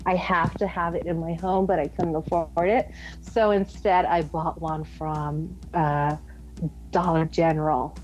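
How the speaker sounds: put-on Southern California voice; California accent. Guest tells host about a Walgreens trip, California accent. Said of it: "Please keep doing that voice more".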